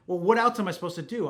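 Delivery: mildly exasperated comeback; retold exasperated protest. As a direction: imitate a client protesting, at a loss. Retold client pushes back in exasperation.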